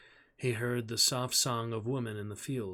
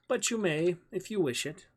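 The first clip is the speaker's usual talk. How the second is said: put-on boy's voice; 7 semitones higher, 4 dB louder than usual. A narrator's reading. Boy character voiced in story.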